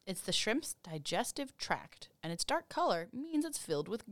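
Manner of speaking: whispered. Real, not acted. Reading a shrimp fact to friends in a whisper. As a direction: hush it like a secret.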